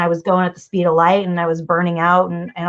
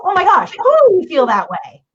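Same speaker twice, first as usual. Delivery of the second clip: empathetic; 10 semitones higher, 4 dB louder than usual. Retold or imitated. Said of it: "it's to".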